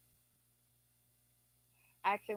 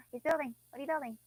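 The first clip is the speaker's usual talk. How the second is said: louder, higher delighted gasp, then a curious question; excited gasp; 4 semitones higher, 6 dB louder, faster than usual. Real, not acted. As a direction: gasp with delight at what he's making. Finds villager building something.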